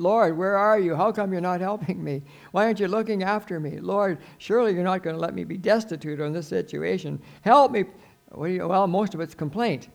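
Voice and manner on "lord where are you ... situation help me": raised, pleading grievance; complaining to God. Acted. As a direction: complain to the Lord, rising to a cry for help. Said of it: "I complain".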